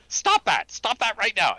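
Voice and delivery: stop-it scolding, played up; mock offended scolding. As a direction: scold them like an offended coworker. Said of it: "would be offended by this and say".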